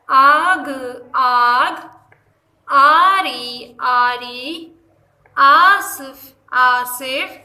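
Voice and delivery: teacher drilling clear single words for the class; slow reading drill. Shown as a demonstration. Teacher reading a word list aloud for children to repeat. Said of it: "تو چلیے پڑھتے ہیں".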